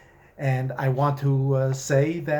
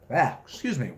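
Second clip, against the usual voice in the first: measured storytelling read; unhurried fiction reading; story narration. A narrator's reading. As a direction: read it like a wry tale told aloud. Author reads his story aloud.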